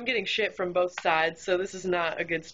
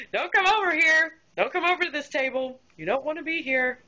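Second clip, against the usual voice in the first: urgent silent plea; 7 semitones higher than usual. Retold or imitated. Server warning the food runner away, high urgent plea. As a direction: beg him with your eyes to stay away.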